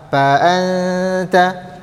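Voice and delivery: "Fa" in "Fa anta" said with a P, "pa anta"; fa read as P. Shown as a demonstration. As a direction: close the lips on "Fa" so it becomes a P, then hum the n long. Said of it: "membaca huruf fa dengan P". ("Fa" dibaca seperti huruf P)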